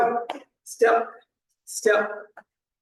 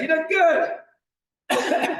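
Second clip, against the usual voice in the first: drawn-out cheering shout; 8 semitones higher, much slower than usual. Real, not acted. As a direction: cheer them on, very slow and big. Coach encouraging class mid-exercise.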